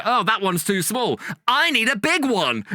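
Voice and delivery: high, slow camp dame voice; drag panto dame. Retold or imitated. Drag dame teasing the crowd, slow and high. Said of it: "somebody in drag will go like".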